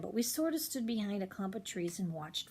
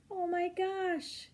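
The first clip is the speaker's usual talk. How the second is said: touched aside; 10 semitones higher, much slower than usual. Real, not acted. Narrator moved by kindness.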